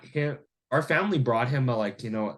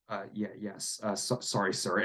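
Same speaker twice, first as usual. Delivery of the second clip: meek apology; 4 semitones lower, 7 dB quieter than usual. Retold or imitated. Tenant meekly backs down.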